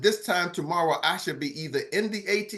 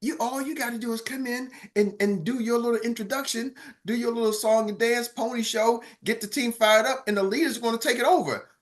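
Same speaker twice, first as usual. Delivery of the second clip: inner voice; 4 semitones higher than usual. Retold or imitated. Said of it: "And then it said".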